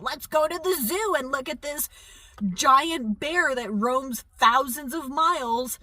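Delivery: sarcastic imitation of zoo-goers; mocking critics. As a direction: parody the hypocrites sweetly. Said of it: "then they're like".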